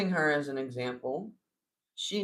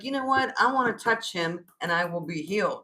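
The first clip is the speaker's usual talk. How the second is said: higher-pitched quoted resolve, settling down; voiced determination; 3 semitones higher, 3 dB louder than usual. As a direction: act out her sudden decision. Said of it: "She was like".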